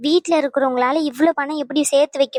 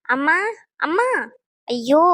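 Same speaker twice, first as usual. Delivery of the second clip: calling out for mom; 2 semitones higher, slower than usual. Acted. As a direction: yell for mother to come now. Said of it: "காட்டு கத்து கத்திக்கிட்டு".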